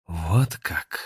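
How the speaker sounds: quiet, spiteful hissed reply; angry hiss. Acted. Grandmaster learns the truth, spiteful hiss. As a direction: hiss it through anger. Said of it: "злобно прошипел гроссмейстер".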